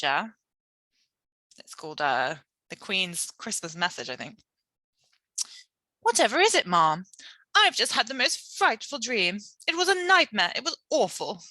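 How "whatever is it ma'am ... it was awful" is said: alarmed voices. A narrator's reading. Maid then Queen, alarmed exchange.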